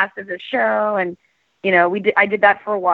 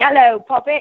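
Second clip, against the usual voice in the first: put-on medieval Renaissance fair wench voice, higher; 4 semitones higher, 4 dB louder than usual. Retelling working as the emcee at Renaissance fairs: put-on medieval wench voice. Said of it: "their winch".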